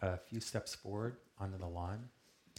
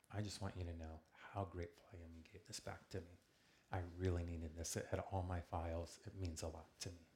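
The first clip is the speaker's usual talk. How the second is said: heartfelt thanks; 5 dB quieter than usual. Retold or imitated. Retold heartfelt thanks to the thief.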